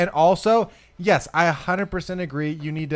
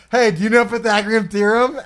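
lightly voiced guy; 5 semitones higher, 4 dB louder than usual. Retold guy in video.

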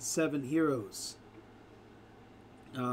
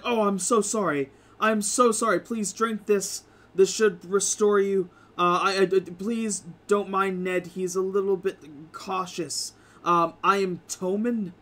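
high, loud, fretful apologies; a nervous frog man fussing over the guests; apologetic frog man; 4 semitones higher, 4 dB louder than usual. Acted. Frog man healing the party, high and flustered. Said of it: "and he's like".

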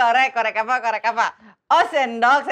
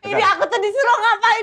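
laughing; 7 semitones higher than usual. Real, not acted. Confused player laughing at the game.

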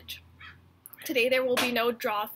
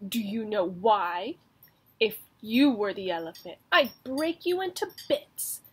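boastful mouse; 5 dB louder than usual. Acted. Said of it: "said the mouse".

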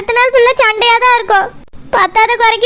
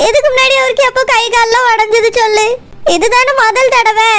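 tearful complaint. Acted. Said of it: "எதுக்கு அழுதுட்டே இருக்கா?".

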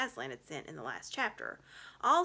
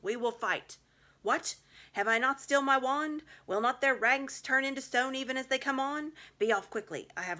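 fierce, loud and high imperious orders; commanding witch; 3 semitones higher, 5 dB louder than usual. Acted. Witch sending the wolf to summon her army, fierce commanding cries. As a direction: bark orders to rally every monster.

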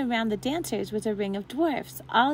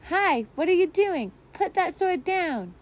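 much higher, louder startled shout, slowing; alarmed cries; 8 semitones higher, 3 dB louder than usual. A narrator's reading. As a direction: yell at someone waving a sword. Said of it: "heard cries of".

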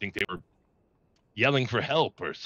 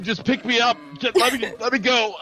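mock pleading; 13 semitones higher, 6 dB louder than usual. Caged, begging to be freed.

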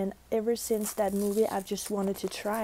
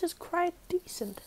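talking while chewing; mouth full of mochi; 9 semitones higher than usual. Real, not acted. Seen 1: Mochi held at teeth biting 0.2-2.6, then chewing with mochi.

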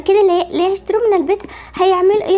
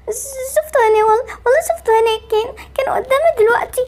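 higher, stammering with fright; frightened insistence; 7 semitones higher than usual. Acted. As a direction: insist in a scared, near-crying voice. Barbie insists she saw something. (إصرار بصوت مرعوب)

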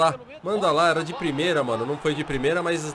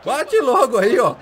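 excited urging; 5 semitones higher, 5 dB louder than usual. Real, not acted. Urging shot replay.

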